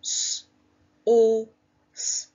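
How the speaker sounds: S, O, S sounded one by one, O punched loud; sounding out. Shown as a demonstration. Teacher pinching sounds with class: each sound said apart. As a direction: segment the word into separate sounds. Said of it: "Let's pinch our sounds".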